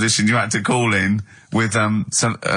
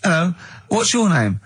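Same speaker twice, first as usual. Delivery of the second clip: higher-pitched silly sketch voice; wacky catchphrase character; 6 semitones higher than usual. Pretend. Comic greeting his little neighbour in a sketch, hammed-up and high. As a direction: play a corny radio character greeting a neighbour. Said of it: "would you have some wacky catchphrases".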